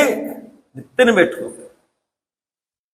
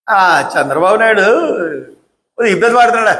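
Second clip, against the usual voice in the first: sarcastic; faster than usual. Shown as a demonstration. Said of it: "ఇది వ్యంగ్యం".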